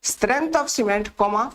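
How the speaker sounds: very slow, word by word, for note-taking; slow dictation. Shown as a demonstration. Teacher dictating a definition to students, drawn out. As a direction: dictate each word so the class can copy it. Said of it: "या फिर ऐसे लिखिए".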